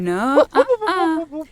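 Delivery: a slow scolding no; firm no. Acted. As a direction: stop him in his tracks. Maid stops gnome following her.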